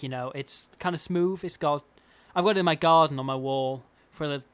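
lightly voiced impression with an American tinge; Robbie Owen. Host reading tiling opinions, slight American-tinged impression. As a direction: read it with a slight American accent. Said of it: "in the voice of a Robbie Owen".

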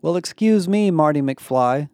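high, loud indignant comeback; dramatic retort. A narrator's reading. Emma snaps back at Barrett, dramatically. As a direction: fire it back with theatrical offense. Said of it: "Emma fired back dramatically".

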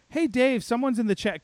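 high, singsong mock bubbly woman; bubbly newcomer. Newcomer alerts studio head to the chat, mock bubbly. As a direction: call the boss chirpily, pitched well up. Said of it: "way too bubbly".

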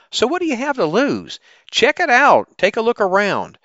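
upbeat salesy ad read; bright sponsor pitch, selling hard; chipper 1950s ad. Acted.

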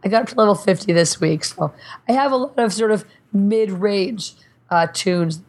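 talking through hiccups; hiccuping between words. Real, not acted. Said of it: "Excuse me, I have hiccups too".

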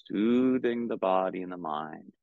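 calm, unhurried meditation guidance with long pauses; measured, soothing meditation teacher; guided meditation. Real, not acted. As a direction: guide them gently into stillness, leaving space between phrases.

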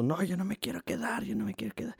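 whiny coworker. Retold or imitated. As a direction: whine it like the sulky blond guy. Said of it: "Y dice el vato". (imitación quejumbrosa y burlona del güero)

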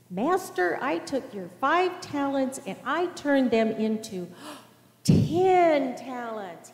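rising eager report, ending in a gasp of delight; proud servant gasping at his own success; excited servant. Acted. Servant boasting to his master, excited with a gasp.

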